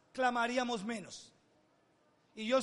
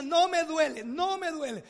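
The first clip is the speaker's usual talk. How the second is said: grandmother insists, the first "No" said louder; firm grandmother correction; 4 semitones higher, 4 dB louder than usual. Retold or imitated. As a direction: correct the child firmly. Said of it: "No, diga". (abuela que corrige con firmeza)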